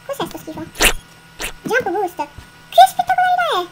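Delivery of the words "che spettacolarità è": awestruck. Real, not acted. Amazed by jump boost.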